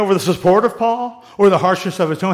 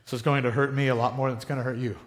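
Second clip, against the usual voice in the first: parent cliché; 6 semitones lower, 8 dB quieter, faster than usual. Retold or imitated. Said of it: "I sound like my parents".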